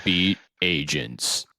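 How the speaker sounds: awards show announcer reveal. Acted. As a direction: present the title like a gala host. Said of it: "He's got that announcer voice".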